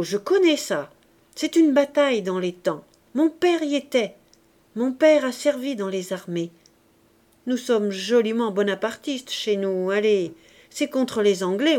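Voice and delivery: lightly voiced proud girl showing off; proud street girl. Éponine boasts about her father. (fille fière qui se vante, voix plus forte)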